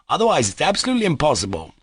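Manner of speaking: high, anxious insistence; fearfully excited. A narrator's reading. The lawyer to the captain, anxiously excited. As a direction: urge procedure, flustered. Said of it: "fearfully excited too".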